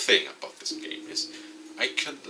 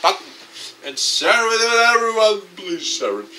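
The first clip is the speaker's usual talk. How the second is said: eager plea; 10 semitones higher, 9 dB louder than usual. Real, not acted. Begging viewers to share.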